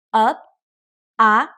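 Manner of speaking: "ah" sliding up; rising tone. Shown as a demonstration. Teacher models the rising second tone. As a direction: let "ah" rise. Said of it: "it goes up".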